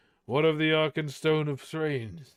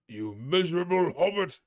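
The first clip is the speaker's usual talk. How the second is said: Thorin berating the hobbit, angry; furious insult; 4 semitones higher than usual. Acted. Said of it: "cried Thorin".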